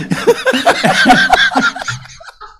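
shrieking burst of laughter; loud high cackle. Real, not acted. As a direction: howl with laughter, high-pitched. Burst of laughter at own joke.

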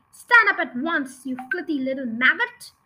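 headmistress barking at a pupil. Acted. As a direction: drag out the order with contempt. Headmistress commanding again.

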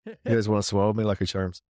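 joking leprechaun-style Irish accent. Shown as a demonstration. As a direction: tease in a light Irish brogue. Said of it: "speak in an Irish accent".

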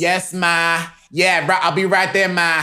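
high eager son answering mom. Pretend. Son answering his mother.

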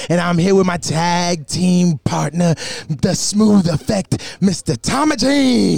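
slow, drawn-out ring announcer delivery; showy, measured introduction of the tag team; ring announcer intro. Acted. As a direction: stretch out each name like a wrestling emcee. Opens the show as announcer.

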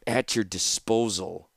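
slow, mildly bitter consent; a touch of sour resignation, drawn out. Acted. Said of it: "Tanos said bitterly".

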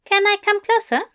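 high, bewildered fussy voice; baffled angel voice. A narrator's reading. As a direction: ask in baffled disbelief.

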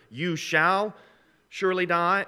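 "shall" lifted, phrase left hanging upward; stress on SHALL. Shown as a demonstration. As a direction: lean on "shall" in "you shall surely die". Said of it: "I wish it was either".

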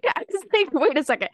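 laughing at herself, high. Real, not acted. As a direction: giggle through the words. Laughs at own mix-up.

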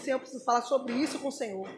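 soft, quick request to God; softly acted petition; hushed prayer. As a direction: speak quietly and quickly, as in private prayer. Models bringing a cause to God.

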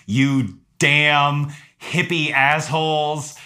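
slow, drawn-out mock cursing; retold angry insult. Landowner cursing out hikers, slow mock anger. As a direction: savour each word of the insult.

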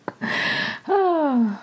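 high, drawn-out winding-down sigh; sigh after laughing. Real, not acted. Host after laughing over the episode, sighing. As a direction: let the laugh run out in a sigh.

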